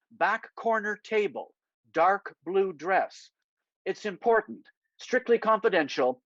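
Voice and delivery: measured, deliberate message read; Daniel reading the MI6 text to Angus, deliberate; reading a text aloud. Acted. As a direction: read the spy's note carefully. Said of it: "and I read".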